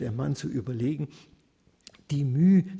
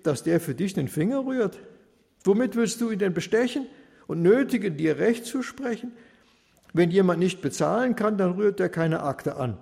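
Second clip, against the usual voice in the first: unashamed taunting; 2 semitones higher, 3 dB louder than usual. Acted. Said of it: "so sprach er ungeniert".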